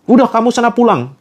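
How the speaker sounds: a boss firing him on the spot; angry boss. Retold or imitated. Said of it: "bosnya marah-marah". (bos marah memecat karyawan)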